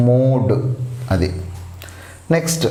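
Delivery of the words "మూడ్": మూడ్ with a long oo; long vowel. Shown as a demonstration. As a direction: let the vowel in మూడ్ last. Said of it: "ఇది long pronunciation". (మూడ్ లో పొడవైన ఊ శబ్దం)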